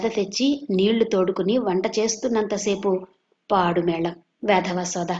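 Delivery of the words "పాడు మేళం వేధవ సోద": grumbling. Acted. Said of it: "అంటూ విసుక్కుంటూనే ఉంది".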